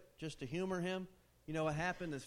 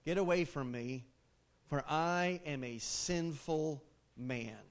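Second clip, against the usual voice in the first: anguished plea; 2 semitones lower than usual. Retold or imitated. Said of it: "here's Peter's response".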